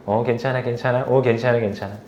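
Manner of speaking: soft, low comforting murmur; tender reassurance, imitating a dad; soothing a child. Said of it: "내가 걔를 안아주면서".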